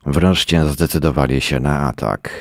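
ordinary delivery

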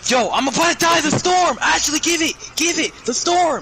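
high, loud panicked yelling; panicking gamer. Real, not acted. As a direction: scream for help in panic. In storm begging for kit.

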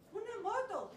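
loud, excited demand; the princess shouting her birthday wish at her parents; eager shout. Acted. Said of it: "Y Sapita dijo".

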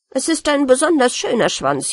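wounded rat insisting proudly; offended pride. Acted. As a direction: stress on besonders, indignant and proud. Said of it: "sehr gekränkt".

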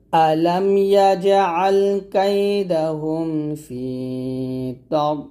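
Quran recitation. Shown as a demonstration. Teacher reciting the verse for students to repeat. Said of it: "একসাথে অর্থ".

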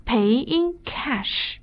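teacher slowing down on pay in cash; careful stress. Shown as a demonstration. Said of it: "大家要注意了".

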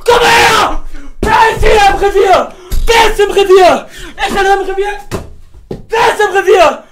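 loud, territorial taunting; taunting shout. Real, not acted. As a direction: yell like you own the turf. Herausforderndes Gebrüll nach dem Spiel. (lautes, provozierendes Revier-Gebrüll)

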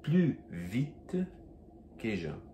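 plus vite with no S on plus; silent S. Shown as a demonstration. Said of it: "Então, Je bois".

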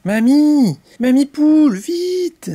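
put-on high, urgent child-like call. Chick calls Mamie Poule for help, urgent high call. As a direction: call out for grandma to hurry.

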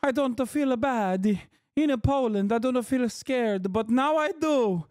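high, slow mock woman voice. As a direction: parrot her back in a high, drawn-out voice. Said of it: "Remember how they said".

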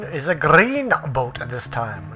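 slow attempt at a Scottish accent. Player shows viewers a friend's new boat, mock Scottish accent. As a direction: put on a light Scottish accent, drawn out. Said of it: "That was my Scottish accent".

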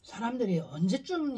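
talking between bites; eating fruit. Real, not acted. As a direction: fruit held at lips. Seen 2: left person holds fruit at lips, mouth moving; speaker uncertain.

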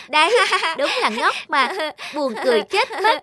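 laughing mockery. Laughing at monkey.

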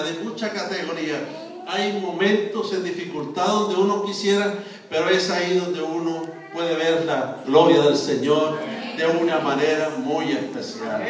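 ordinary talk

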